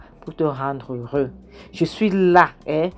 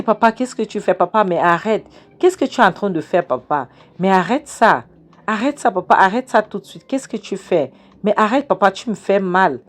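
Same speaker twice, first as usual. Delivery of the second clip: higher, louder pleading cries; retold crying out; 5 semitones higher, 4 dB louder than usual. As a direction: protest loudly while being tied up. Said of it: "Elle crie".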